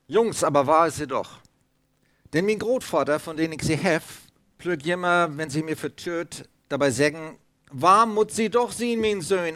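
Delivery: vorgelesen in breitem Plattdeutsch, etwas höher; erzähl es wie der Opa auf Platt. Shown as a demonstration. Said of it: "Also es war Plattdeutsch". (Märchen auf Plattdeutsch vorgetragen)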